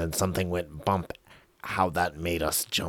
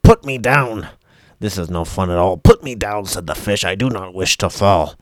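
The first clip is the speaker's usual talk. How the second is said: panicked yelling; 2 semitones higher, 10 dB louder than usual. Acted. Fish yelling at Joe to put him down, panicky. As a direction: squawk to be put down. Fish protests being held up.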